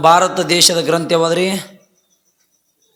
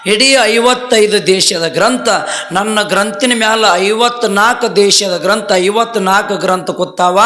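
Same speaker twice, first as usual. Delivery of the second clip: much higher and louder, proclaiming; proud declaration; 6 semitones higher, 3 dB louder than usual. Acted. Vivekananda telling the foreign monks why he is not angry, proud and louder. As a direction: ring it out with pride.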